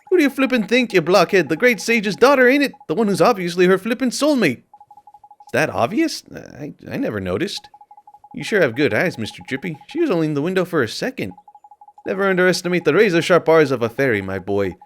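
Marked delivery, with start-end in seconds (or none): 0.1-4.6 high, brash little fairy voice; chirpy, cheeky fairy sidekick. Acted. Reads Drippy's lines in voice. 12.0-14.8 high, brash little fairy voice; chirpy, cheeky fairy sidekick. Acted. Reads Drippy's lines in voice.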